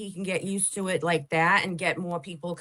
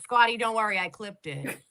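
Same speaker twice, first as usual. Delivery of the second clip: ordinary talk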